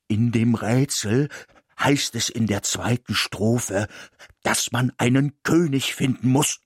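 plain reading voice

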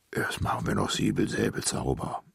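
low giant voice; calm, deep giant reply; friendly giant. A narrator's reading. Giant answers the child.

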